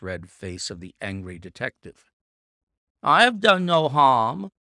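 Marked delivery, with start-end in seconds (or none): 3.0-4.5 louder, higher nervous protest; uneasy protest. A narrator's reading. Caught man pleading with the angry detective, nervous. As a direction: defend himself with a nervous edge. Frightened culprit pleads his innocence.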